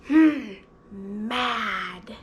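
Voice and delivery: loud huff, then a low 'mad'; acted mad. Shown as a demonstration. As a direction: huff crossly, pretending, for kids. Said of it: "Let's do a mad face together".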